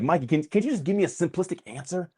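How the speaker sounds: a fan begging for a quick answer, mock pleading. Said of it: "people ask me".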